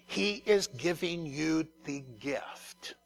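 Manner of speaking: slow hushed whisper; a reverent whispered reveal. Real, not acted. Preacher hushes on key point.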